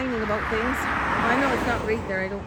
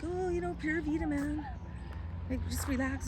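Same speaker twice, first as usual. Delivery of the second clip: laid-back local; 5 semitones higher, 8 dB quieter than usual. Retold or imitated. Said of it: "he's just like".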